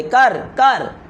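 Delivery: drawn-out, very slow tempting whisper-like urging; coaxing devil. Retold or imitated. Satan urging the sinner at last, slow coaxing push. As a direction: stretch each word like Satan luring you in. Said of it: "शैतान बार बार आपके दिल में वो चीज़ डालेगा".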